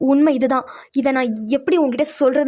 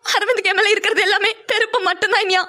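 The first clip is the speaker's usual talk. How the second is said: slightly higher, pained confession; an older sister admitting a painful truth; lightly voiced sister, sorrowful; hurt elder sister; 5 semitones higher than usual. Pavi confides, hurt.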